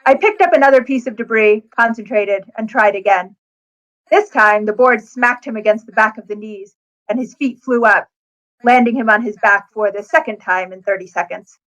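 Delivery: steady first-person audiobook read; story narration. Acted. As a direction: read the passage like a novel's narrator. Author reads her book excerpt.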